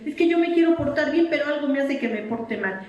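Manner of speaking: a hint of a small boy's earnest plea; little grandson. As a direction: grandmother imitating her little grandson, lightly childlike. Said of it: "uno de mis nietecitos chiquitos eso decía".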